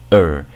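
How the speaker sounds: er said on its own as a schwa plus R; suffix pronunciation. Shown as a demonstration. Teacher shows learners how the suffix sounds alone, er modelled as schwa with R. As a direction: isolate er, a neutral vowel into R. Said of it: "Este sufijo se pronuncia por sí solo".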